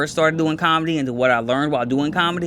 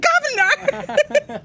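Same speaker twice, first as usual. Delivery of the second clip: stretched-out stage yell; much slower than usual. Retold or imitated. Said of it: "I was like".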